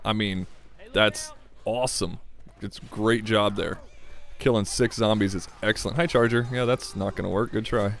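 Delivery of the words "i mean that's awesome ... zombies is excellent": forced positivity. Pretend. Player making himself praise a teammate's pipe bomb, forced positivity. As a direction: dutifully praise it, drawing out the compliments. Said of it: "I have to be positive".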